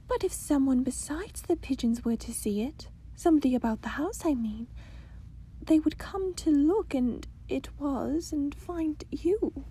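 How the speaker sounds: put-on high eager young princess; a curious little princess fretting; cartoon princess.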